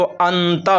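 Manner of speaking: noon in ant said fully, tongue to palate; wrong reading with a plainly sounded noon; clear noon. Shown as a demonstration. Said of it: "इस तरह अगर हम पढ़ेंगे".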